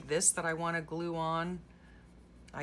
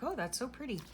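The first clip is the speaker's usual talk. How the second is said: imitating sweet clerk; 9 semitones higher, 3 dB quieter, faster than usual. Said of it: "She was like".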